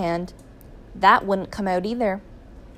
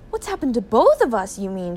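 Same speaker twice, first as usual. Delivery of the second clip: raised, loud voice at the start; shouted retort; 3 dB louder than usual. A narrator's reading. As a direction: shout it back at the wife. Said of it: "shouted Mister Gregg".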